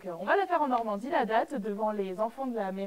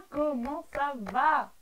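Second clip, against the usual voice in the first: slow falling greeting; 3 semitones higher, much slower than usual. Shown as a demonstration.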